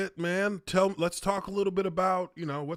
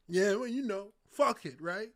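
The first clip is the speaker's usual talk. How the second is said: half-hearted Mike; 3 semitones higher, 4 dB quieter than usual. Retold or imitated. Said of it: "half-heartedly into it".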